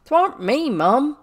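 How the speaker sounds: high, loud tearful protest; acted sobbing denial. A narrator's reading. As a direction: wail your innocence as a servant girl. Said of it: "said Becky, sobbing".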